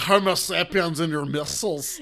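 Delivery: slow, hammed-up Scottish villain voice; imitating a villain with a Scottish burr; mock Scottish accent. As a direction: draw it out in a put-on Scottish accent. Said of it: "That's how we have to say it".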